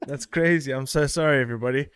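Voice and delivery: panting after running; breathless from a run; out of breath. Real, not acted. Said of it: "I'm out of breath 'cause I ran".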